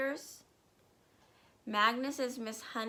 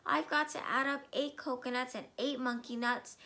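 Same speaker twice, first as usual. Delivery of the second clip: mild flustered plea; 3 semitones higher than usual. Acted. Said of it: "he cried".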